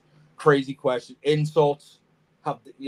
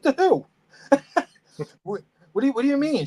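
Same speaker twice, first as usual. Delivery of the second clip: high, loud, disbelieving retort; incredulous; 13 semitones higher, 3 dB louder, faster than usual. Retold or imitated. Retelling a customer's threat to report him, incredulous. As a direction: throw it back at her, baffled.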